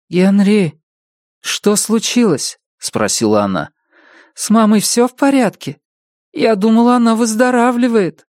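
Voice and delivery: gentle, worried questions; concerned. A narrator's reading. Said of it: "он вот-вот заплачет". (с участием)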